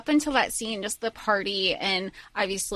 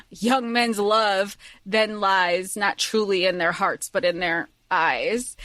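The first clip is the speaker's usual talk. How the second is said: measured recital; 3 semitones lower, slower than usual. Retold or imitated. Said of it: "I liked his pause when he delivered that".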